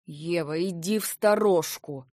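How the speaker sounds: громко и зло, властно приказывает уйти; резко прикрикнуть на неё; злой приказ. A narrator's reading. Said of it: "зло приказал он". (злой громкий приказ)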